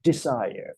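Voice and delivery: "desire" slowly, with the -er joined on; "desire" in three smoothly linked syllables; three-syllable pronunciation. Shown as a demonstration. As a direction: say "desire" as di-sai-er, drawn out. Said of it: "อ่านเป็นสามพยางค์".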